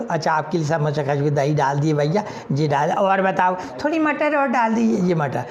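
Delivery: lightly voiced vendor.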